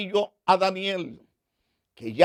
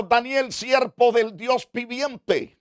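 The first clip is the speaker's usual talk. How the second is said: sad calling out; 3 semitones higher than usual. Acted. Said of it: "llamó a voces ... con voz muy triste".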